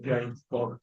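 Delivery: James Bond in a light Scottish Bond accent; a quick Connery-style James Bond. Shown as a demonstration. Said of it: "Like that".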